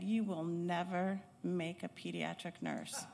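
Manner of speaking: quiet retold put-down from an instructor; muttered under breath. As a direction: lightly imitate a furious teacher's muttered verdict. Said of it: "under her breath, she said".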